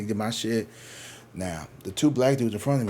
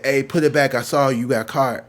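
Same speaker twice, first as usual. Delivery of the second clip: louder retold challenge; calling out; 2 semitones higher, 6 dB louder than usual. Clerk catching a shoplifter, raised-voice mock challenge. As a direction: imitate a clerk firmly calling someone out.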